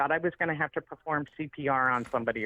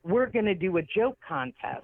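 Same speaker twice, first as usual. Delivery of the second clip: charity host announcing; 5 semitones higher than usual. Retold or imitated. Acts charity man announcing the contest.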